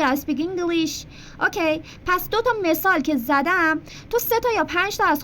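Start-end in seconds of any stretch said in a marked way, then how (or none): 0.0-1.1 slow, clear "I speak English"; slow model sentence. Shown as a demonstration. Teacher giving a learner a sample, slowly. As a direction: say it slowly so they can copy. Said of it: "یا بگو".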